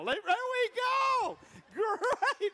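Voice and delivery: loud, high, laughing shout over the crowd; excited shout. Real, not acted. Pastor shouting back at a cheering crowd, excited.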